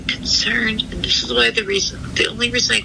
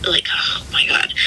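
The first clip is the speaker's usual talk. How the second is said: overwhelmed sigh; 3 semitones lower, 3 dB louder than usual. Real, not acted. Overwhelmed, breaks off.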